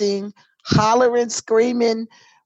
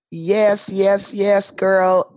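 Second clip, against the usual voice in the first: mock hollering; slower than usual. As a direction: cheer it back like you did on Friday, half-hearted. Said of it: "I'm hollering and screaming".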